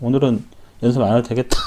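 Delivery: a sigh of relief muttered inwardly, fast; inner relieved thought. Retold or imitated. 회식 날 연습을 쉴 생각에 혼잣말하며 속으로 안도. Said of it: "속으로".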